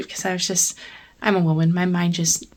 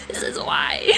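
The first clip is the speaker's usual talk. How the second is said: hushed secret whisper. Shown as a demonstration. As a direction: breathe it as a secret. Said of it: "repeats line as a whisper".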